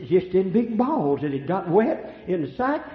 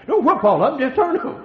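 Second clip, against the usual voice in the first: loud preaching; 8 semitones higher, 8 dB louder than usual. Real, not acted. Preaching at full force.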